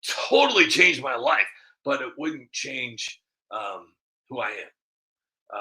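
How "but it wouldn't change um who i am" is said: slow and soft, from the heart; mean every word, slowly; sincere. Real, not acted. Sincere point about his values.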